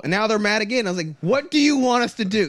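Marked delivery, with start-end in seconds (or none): 1.2-2.5 exasperated. Retold or imitated. Exasperated retort.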